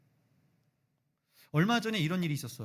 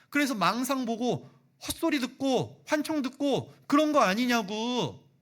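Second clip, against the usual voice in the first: loud, high, mocking disbelief; scoffing Thomas; 9 semitones higher, 6 dB louder than usual. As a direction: scoff at the disciples as if they've lost their minds. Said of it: "지금 도마가 그렇게 얘기하는 겁니다". (비웃듯 큰 소리로 불신하는 도마)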